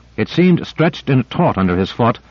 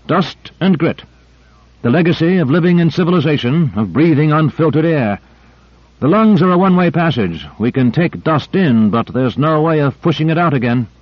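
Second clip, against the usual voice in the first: higher explaining scientist; lecturing doctor voice; 5 semitones higher than usual. Acted. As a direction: lay it out like a lecture.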